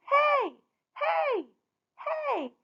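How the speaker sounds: high, slow mocking taunt rising into hoots; high teasing hey hey hey; jeering villagers. A narrator's reading. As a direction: taunt her like a cruel crowd. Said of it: "they laughed".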